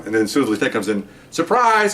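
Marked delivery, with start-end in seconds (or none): 1.3-1.9 high, called-out reveal; mock call-out, pitched well up; retold surprise shout. Squad reveals itself to injured partner, retold excited call.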